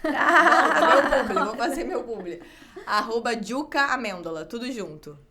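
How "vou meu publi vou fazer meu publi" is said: laughing at own slip-up; embarrassed laugh while correcting yourself. Real, not acted. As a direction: talk through loud laughter, pitched up. Laughing at botched own handle plug.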